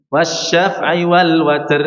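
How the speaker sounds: slow chant of "Wasyaf'i wal watr" as often heard; imitating a frequent mistake; wrong recitation. Shown as a demonstration. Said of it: "jangan dibaca seperti ini".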